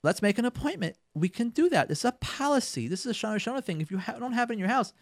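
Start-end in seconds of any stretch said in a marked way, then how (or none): 0.0-1.0 busy spouse putting it off. Retold or imitated. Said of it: "They can say to their wives".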